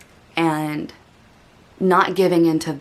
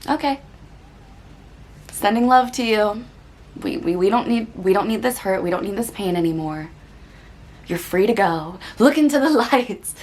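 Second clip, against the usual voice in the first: gentle kindness; 3 semitones higher than usual. Retold or imitated. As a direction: send it off kindly, like to a friend. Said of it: "I'm like".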